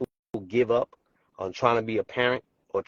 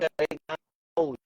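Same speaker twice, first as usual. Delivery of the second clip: breaking up; 5 semitones higher than usual. Real, not acted. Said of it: "You're breaking up again".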